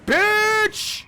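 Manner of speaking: high, loud furious yelp; frustrated outburst. Real, not acted. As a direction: blurt it out in a burst of rage.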